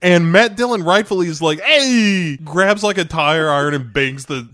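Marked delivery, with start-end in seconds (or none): 1.6-2.4 angry shout. Retold or imitated. Matt Dillon angry at car.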